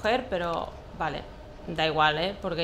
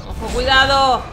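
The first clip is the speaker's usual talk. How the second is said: loud warning shout; 5 semitones higher, 11 dB louder than usual. Real, not acted. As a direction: shout Ojo, cuidado high and loud. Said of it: "repeated warning".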